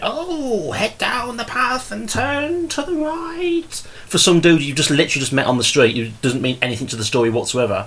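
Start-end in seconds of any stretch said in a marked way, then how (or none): 0.0-3.8 very high, slow, drawn-out proper Shakespearean delivery. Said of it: "proper Shakespearean".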